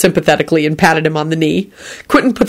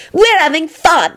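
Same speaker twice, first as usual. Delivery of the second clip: merrily; 11 semitones higher than usual. Acted. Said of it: "Rosie declared merrily".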